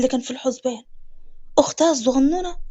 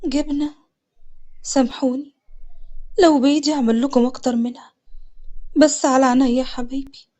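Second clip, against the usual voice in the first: soft, low heartbroken apology; ashamed she can't give more; 3 semitones lower, 4 dB quieter than usual. Acted. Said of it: "سوكا بكسرة في قلبها". (بحزن وصوت منخفض)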